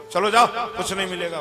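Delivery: quick, brusque telling-off; mild scolding dismissal. Acted. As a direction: shoo the beggar away briskly. Mother-in-law shoos away beggar. (हल्की डाँट के साथ भगाते हुए)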